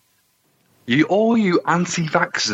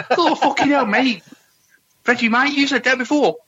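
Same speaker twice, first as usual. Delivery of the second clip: a pitched-up put-on voice, badly done; a bad mimic of Reggie, much higher; terrible impression; 11 semitones higher than usual. Co-host mocks Reggie with a terrible high impression. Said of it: "that's a really terrible impression".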